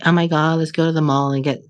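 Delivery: put-on a light, quick Valley Girl accent; a breezy mock Valley Girl accent. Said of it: "I always do that Valley Girl accent".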